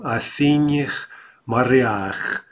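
slow "o siniach mariach" with the stress moved onto the plural ending; stress shift. Shown as a demonstration. Teacher shows students the plural stress shift, slowly. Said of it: "there we get that stress shift".

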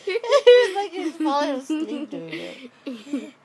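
laughing. Real, not acted. Laughing at baby.

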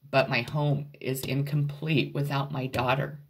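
choked up, trying not to cry; holding back tears. Real, not acted. Mother missing her daughter, voice close to tears. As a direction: voice on the edge of crying, fighting to stay composed. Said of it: "I'm trying not to get emotional".

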